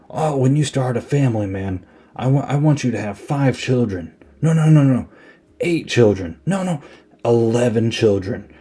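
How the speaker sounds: imitating a buddy's big pep talk, pitch lifted; lightly hammed-up rousing speech; mock inspirational speech. Retelling a war buddy advising his friend on family, mock inspirational. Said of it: "doing this big inspirational speech".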